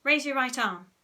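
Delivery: masterful instruction; ordering. A narrator's reading. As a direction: order your subject firmly. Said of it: "he ordered".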